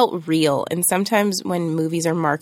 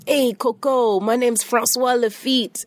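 put-on French accent; 6 semitones higher than usual. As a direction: fake French accent, pitched up. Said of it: "you had a really great French accent there".

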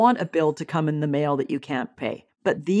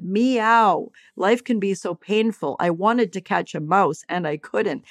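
lightly voiced cat; 3 semitones higher than usual. The house cat complaining about a missed mouse, lightly voiced. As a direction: playfully voice the passing cat's complaint. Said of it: "The cat just walked by and said".

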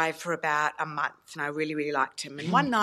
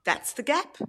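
quoting the date; 4 dB louder than usual. Retold or imitated. Quoting date praising thigh gap.

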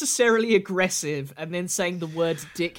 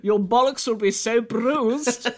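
slow, hammed-up grave voice; mock solemn warning; 5 semitones higher, 3 dB louder, slower than usual. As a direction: spell it out like a dire verdict.

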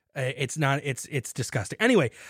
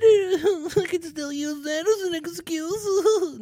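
high, slow, laughing through the words; giggly aside; 4 dB louder, much slower than usual. Real, not acted. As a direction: laugh while saying it, pitched way up. Giggles at own baby excuse.

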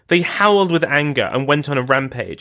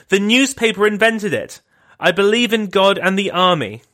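mock shouted denial; 5 semitones higher than usual. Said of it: "she shouted at him".

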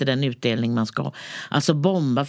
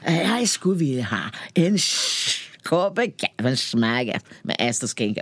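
repeated order in mock Danish; fake Danish; slower than usual. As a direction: try the fake Danish once more for the barista. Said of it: "man låtsades att man kunde danska".

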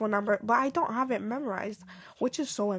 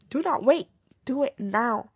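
louder, higher command: do not wait; firm push; 3 semitones higher, 4 dB louder than usual. Real, not acted. Urging procrastinating viewers, firm louder command. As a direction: insist they stop delaying.

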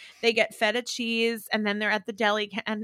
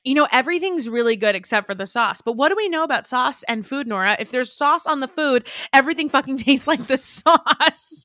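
mock polite critique; 4 semitones higher, 4 dB louder than usual. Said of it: "Kristen just offers up".

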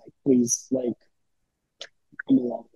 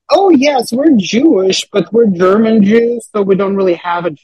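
mock earnest explanation; 5 semitones higher, 5 dB louder than usual. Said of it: "that would just sound stupid".

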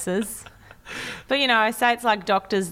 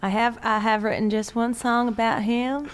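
lightly put-on American Southern twang; mock American accent; 3 semitones higher than usual. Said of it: "I'd like you to answer in American accent".

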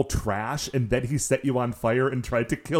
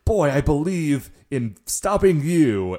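gruff hero voice; 3 semitones higher, 4 dB louder, slower than usual. Acted. A character declares he'll stop the Rangers, in a put-on voice. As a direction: announce it like a swaggering hero.

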